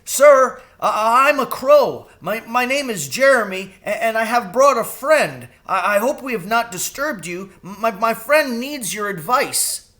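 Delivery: high, loud stammering crow; a frightened bird addressing a great owl; timid crow, high and stuttering; nervous crow. Acted.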